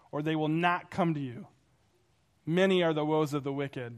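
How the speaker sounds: measured scripture reading voice. Acted. Pastor reads scripture to the congregation, measured. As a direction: read God's words out with weight.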